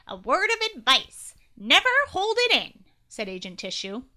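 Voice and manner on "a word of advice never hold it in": nasal voice. Acted. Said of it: "said in a nasally voice".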